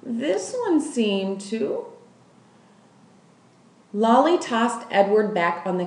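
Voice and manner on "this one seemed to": mild tremble, almost apologetic; voice shaking. Acted. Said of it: "her voice shook".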